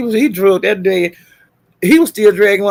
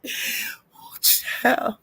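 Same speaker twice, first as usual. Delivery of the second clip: breathless laugh; 4 semitones higher, 9 dB quieter than usual. Real, not acted. Laughing cry.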